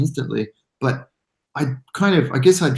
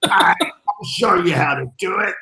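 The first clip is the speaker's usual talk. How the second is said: much higher, slow, hammed-up Italian accent; awkward Italian accent; 8 semitones higher, 3 dB louder, slower than usual. Teasing a friend in an awkward Italian accent, hammed-up. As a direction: shout it like a clumsy Italian showman. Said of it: "awkward Italian accent".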